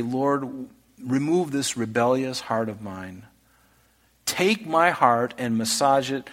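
gentle, pleading prayer to God; humble prayer. Acted. Preacher voicing a penitent's prayer to the Lord, humble and pleading.

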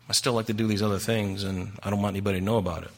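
imitating a furtive confession; mock confiding. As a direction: drop the voice as if owning up to a secret. Mimics people hiding their sins.

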